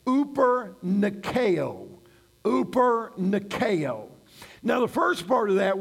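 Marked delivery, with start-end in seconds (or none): 0.1-1.9 "uper nikeo" said very slowly, word by word; Greek term demonstration. Shown as a demonstration. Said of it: "words that are used in the Greek language are". 2.4-4.1 "Uper Nikeo" repeated very slowly for learners; Greek term demonstration. Shown as a demonstration. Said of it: "words that are used in the Greek language are".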